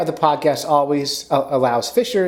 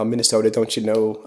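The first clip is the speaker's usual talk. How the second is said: put-on Minnesota accent; 2 semitones lower than usual. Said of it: "great kind of regional Minnesota accent".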